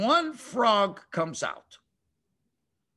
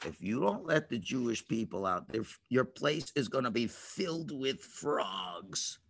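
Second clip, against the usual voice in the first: solemn warning; 8 semitones lower, 8 dB quieter than usual. Acted. Moses warning Pharaoh.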